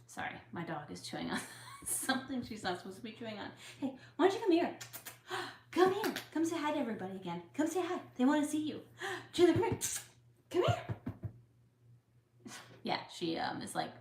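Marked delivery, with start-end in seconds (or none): 3.8-10.9 much higher, louder coaxing call to a dog. Real, not acted. Vlogger coaxing her dog Chandler to greet viewers, high and loud. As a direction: sweet-talk the dog over, high and bright-voiced.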